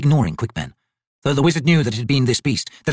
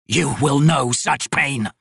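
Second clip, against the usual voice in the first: slow menacing roar; 2 semitones higher, much slower than usual. Acted. Crippled god to the captured wizard, roaring slowly. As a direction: promise the pain slowly. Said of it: "the god roared".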